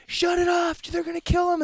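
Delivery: high-pitched mock panic scream; imitated screaming. Imitating protesters tied to slaughter machine, mock screaming. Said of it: "then they started screaming".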